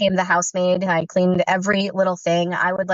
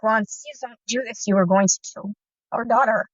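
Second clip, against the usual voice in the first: retold quiet plea. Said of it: "and I'm pleading".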